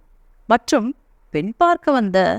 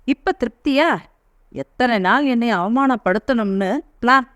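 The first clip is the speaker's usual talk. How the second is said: angry shout; 4 semitones higher than usual. Acted. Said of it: "கத்தினார்".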